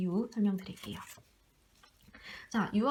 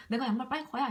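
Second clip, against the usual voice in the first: put-on child's demand; 4 semitones higher than usual. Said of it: "제가 양말을 빨고 싶었대요".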